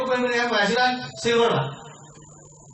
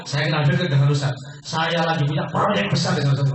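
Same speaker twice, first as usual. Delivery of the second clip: enthusiastic; 5 semitones lower than usual. Shown as a demonstration. Salesman demoing to seminar audience, enthusiastic boast. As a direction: brag about your famous partner with gusto. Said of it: "Ngomongnya antusias gitu".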